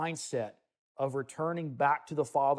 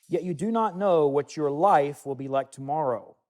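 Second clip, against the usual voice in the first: louder, declaiming scripture reading; solemn bible reading from the pulpit; 4 dB louder than usual. Acted. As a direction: proclaim the verses to the congregation. Reads scripture aloud from James.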